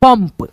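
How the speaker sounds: पंप with a clear m before the final p; careful teacher's पंप, said as "pamp"; dot read as M. Shown as a demonstration. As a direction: sound the nasal of पंप as म. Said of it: "ऐसे करके".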